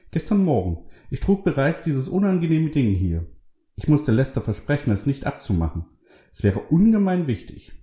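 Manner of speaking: high, lively woman's voice; Carol's voice. A narrator's reading. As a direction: pitch up for the pious wife.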